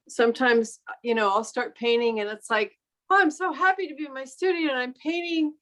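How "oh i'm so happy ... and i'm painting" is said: happy self-quote, pitched higher; lightly acted delight, higher in pitch; mock happy chirp. Painter retelling her joy at starting in the studio, mock happy.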